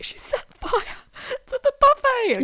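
half-whispered then squealed through laughter; laughing through it. Retold or imitated. Quoting mum in hysterics, laughing high. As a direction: giggle the words out, breaking up. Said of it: "She was like".

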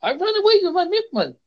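high, hammed-up swoon; mock reality-show heroine; badly scripted actor. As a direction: overact it in a high-pitched voice. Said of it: "they're so badly scripted".

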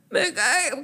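tearful little-girl whine, imitated; mock-cry it like a small child; whimpering kid impression. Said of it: "Como niña chiquita".

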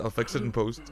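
chuckling the line out; laughing catchphrase. Shown as a demonstration. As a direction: say it through a laugh. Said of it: "five magic words of the podcast".

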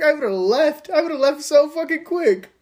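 high, emphatic retelling; emphatic disbelief. Retold or imitated. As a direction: insist loudly you'd leave. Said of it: "And I was like".

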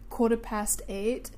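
slow, amused attempt at Northern Irish; Northern Irish accent. Shown as a demonstration. Practising the answer for co-host, slow Northern Irish accent. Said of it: "I need to perfect an Irish accent".

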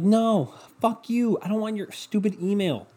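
high-pitched indignant retort; exasperated refusal. Acted. Customer refusing to give cashier an email, high-pitched and exasperated.

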